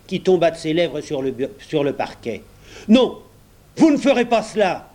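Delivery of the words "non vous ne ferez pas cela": loud roar, much higher. A narrator's reading. Pat roars at the clerk, furious shout. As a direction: bellow it like a furious Irish cop. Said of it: "rugit Pat d'une voix formidable".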